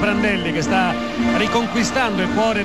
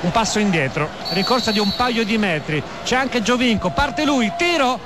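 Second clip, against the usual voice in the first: building to the shot. Real, not acted. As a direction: build tension to the strike. Free kick taken live.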